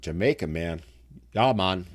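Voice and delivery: a hint of a Jamaican lilt, half-hearted; lightly put-on Jamaican accent. Joking to viewers about moving to Jamaica, faint Jamaican accent. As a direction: toss off a bad Jamaican accent for fun. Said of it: "I'm horrible with accents".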